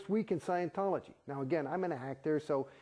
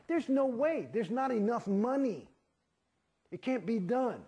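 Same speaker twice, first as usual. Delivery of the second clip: heated insistence; 8 semitones higher than usual. Real, not acted. Insisting the numbers fail.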